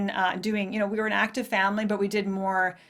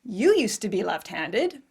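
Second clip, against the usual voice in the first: slow, lightly voiced sweet mom; a hint of a sweet mother, drawn out; sweet mother quote; 4 semitones higher than usual. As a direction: mimic mom gently reminding her. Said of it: "my sweet mother piped up and said".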